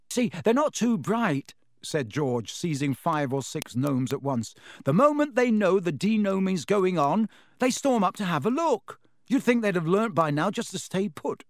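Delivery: put-on cheeky young man. George explaining, amused.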